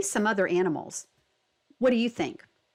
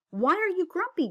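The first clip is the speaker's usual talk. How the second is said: lemur voice; 10 semitones higher than usual. Acted. Lemur asks Jim.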